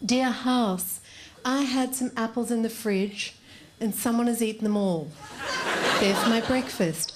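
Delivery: lightly acted, measured note-reading voice; note-writer housemate. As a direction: read it as a housemate's polite complaint note. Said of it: "she thinks they sound like this".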